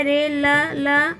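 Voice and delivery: "रे, ल, ल" drawn out one sound at a time; slow syllable split. Shown as a demonstration. Teacher breaking रेलगाड़ी into sounds, slowly. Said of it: "र में ए की मात्रा है".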